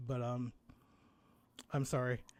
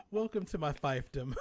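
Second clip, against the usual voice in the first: grand lord welcoming his subjects, laughing; dark lord; 6 dB louder than usual. Pretend. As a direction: lordly welcome through laughter.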